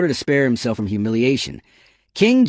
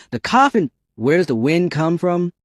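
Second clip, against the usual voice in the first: startled; 5 semitones higher than usual. Acted. Sudden wind from the coffin.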